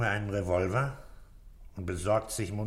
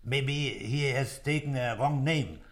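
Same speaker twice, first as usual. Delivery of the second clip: put-on slow, careful German-accented English; laborious foreign-sounding English; halting English; 3 semitones higher, slower than usual. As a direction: pick out each English word with a German accent. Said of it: "mit meinem Englisch".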